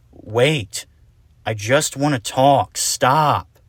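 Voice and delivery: chasing shout; shouting after her. Acted. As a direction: call after someone running off. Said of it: "Argyle shouted".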